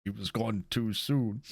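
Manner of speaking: mildly choked-up mourner, acted; a touch of tears, just holding it together; tearing up. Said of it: "kinda, like, tearing up a bit".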